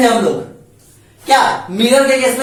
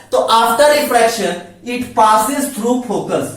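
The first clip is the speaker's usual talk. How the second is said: slow dictation; much slower than usual. Shown as a demonstration. Teacher dictating the first rule.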